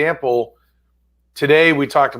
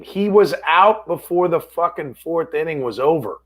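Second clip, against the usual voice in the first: ordinary talk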